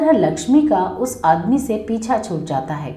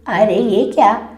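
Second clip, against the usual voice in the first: startled, a touch louder; frightened gasp of disbelief; scared; 3 dB louder than usual. Acted. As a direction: seth startled by the TV's eyes, alarmed. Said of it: "वो सेठ डर के मारे".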